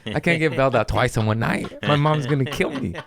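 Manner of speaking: panicked plea to friends. Retold or imitated. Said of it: "and I'm like".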